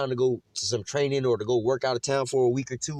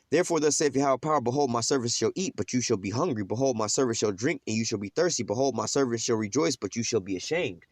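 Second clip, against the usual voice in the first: measured, lower reading of scripture; 3 semitones lower than usual. Acted. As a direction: read the verses like a preacher. Reads scripture passage aloud.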